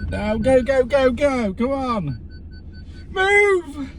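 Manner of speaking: high, urgent hurry-up; rushing, go go go. Real, not acted. Urging himself to hurry.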